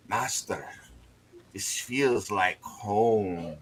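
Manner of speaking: slow, drawn-out words from a contented imp; a hint of an imp basking in warmth; lightly voiced imp. Imp telling its master by telepathy it feels at home, lightly voiced and slow. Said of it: "in your mind, whodunit, you hear".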